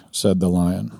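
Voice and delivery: reading a story aloud with lightly voiced characters. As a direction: read it like a bedtime tale for listeners. Reads Narnia passage aloud.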